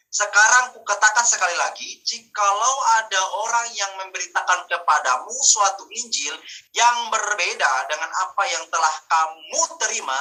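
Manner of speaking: emphatic Bible reading from the pulpit; scripture reading. Real, not acted. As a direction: read the verse out firmly to the congregation. Reads a Bible verse aloud.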